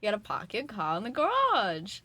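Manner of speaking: put-on dropped r's in a Boston accent; park the car like a Bostonian. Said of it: "I am from Boston. I'm allowed to do that".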